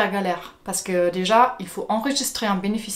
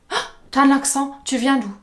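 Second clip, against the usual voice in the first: curious coworker; 5 semitones higher than usual. Retold or imitated. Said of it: "la première chose que cette personne va dire".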